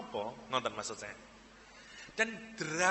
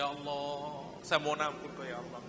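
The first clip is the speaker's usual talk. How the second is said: tearful plea; 3 semitones lower, 3 dB quieter than usual. Retold or imitated. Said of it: "Saya nangis sama Allah".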